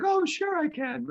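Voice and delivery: high, drawn-out fake English accent; squeaky-high, slow attempt at an English accent; bad English accent. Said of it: "can you do it in an English accent".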